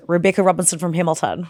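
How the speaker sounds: broad Kiwi vowels; New Zealand accent. Acted. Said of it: "I can do New Zealand".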